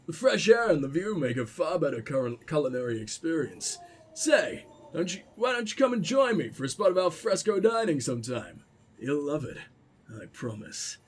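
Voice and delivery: half-hearted gruff survivalist, chatty. Acted. Streamer reads the prepper's letter, lightly gruff. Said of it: "the gruff voice".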